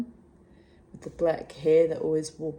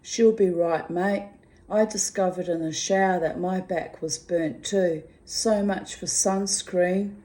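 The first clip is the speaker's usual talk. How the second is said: upbeat Aussie read, louder; cheerful mateship tone; reading her cheery reply; 4 dB louder than usual. Retold or imitated. Reading her reply to the friend, cheery and loud. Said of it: "I replied".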